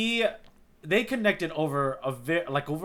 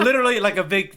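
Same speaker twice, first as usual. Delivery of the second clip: words pushed out through a laugh, louder and higher; 6 semitones higher, 9 dB louder than usual. Real, not acted. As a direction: laugh while saying it. Laughing mid-sentence about arc.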